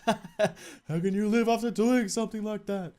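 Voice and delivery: laughing through a hammed-up ghost voice. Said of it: "do you like my ghost voice".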